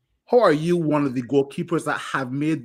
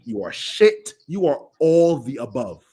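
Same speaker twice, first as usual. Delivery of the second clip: angry outburst. Real, not acted. Angry rant at goalkeeper.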